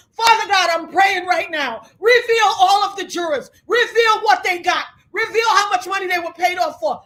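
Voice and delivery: calling on the Lord for justice; fervent prayer. Real, not acted. Prays aloud for exposure.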